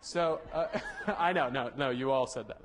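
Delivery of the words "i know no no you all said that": talking through a chuckle; amused laughing. Real, not acted. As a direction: chuckle while conceding to the class. Amused, teasing audience about guesses.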